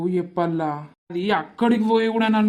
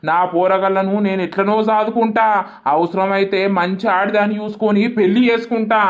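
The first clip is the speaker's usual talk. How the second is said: furious shouting. Acted. Cheated man yells at the caller and his wife, furious. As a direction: shout him away in disgust.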